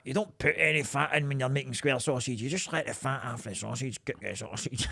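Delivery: lightly voiced dad as a hard man laying down the law; gangster voice. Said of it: "sounds like a fucking gangster".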